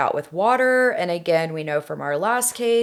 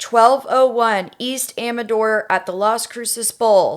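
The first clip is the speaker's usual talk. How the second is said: 911 caller; 3 semitones higher than usual. Acted. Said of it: "I am going to be Melissa".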